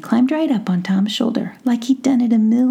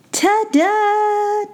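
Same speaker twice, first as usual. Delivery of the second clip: chuckled; 14 semitones higher than usual. Acted. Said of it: "chuckled Tom".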